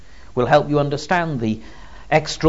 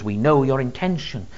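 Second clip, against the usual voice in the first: mild demon defiance rising to a loud challenge; defiant demon; 3 semitones higher, 5 dB louder than usual. Acted. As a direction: grow into open defiance. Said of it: "He's saying to Jesus".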